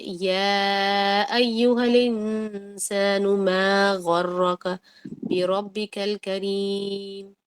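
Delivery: slow melodic tilawat; Quran recitation. Acted. Teacher recites the verse for students in melodic tilawat. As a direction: chant the verse slowly and evenly.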